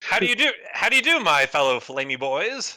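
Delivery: a hint of a courteous fox; gm echoes the greeting. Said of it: "could you say that again".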